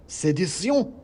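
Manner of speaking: high, loud squeaky accusation; angry mouse shout. Acted. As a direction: cry treason like a tiny commissar. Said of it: "shouted the mouse in the hat".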